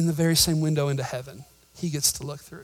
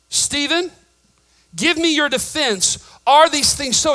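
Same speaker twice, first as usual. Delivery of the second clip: higher and louder, pressing for an answer; demanding, raised voice; 8 semitones higher, 6 dB louder than usual. Retold or imitated. High priest demanding Stephen answer, raised and pressing. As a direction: call him to account from the bench.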